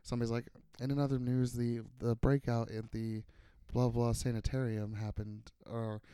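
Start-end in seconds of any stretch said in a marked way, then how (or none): 0.8-5.5 NPR voiceover. Retold or imitated. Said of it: "do an N P R voiceover".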